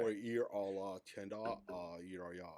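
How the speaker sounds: put-on valley girl Spanish. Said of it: "she speaks like a valley girl".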